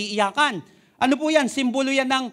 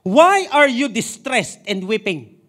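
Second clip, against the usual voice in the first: Lord's question; 2 semitones higher, 7 dB louder, much slower than usual. Acted. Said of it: "Ang sabi ni Lord".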